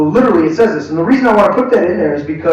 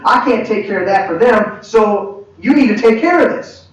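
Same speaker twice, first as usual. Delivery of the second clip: firm rebuke; 4 semitones higher than usual. Acted. Acted rebuke over a broken commitment.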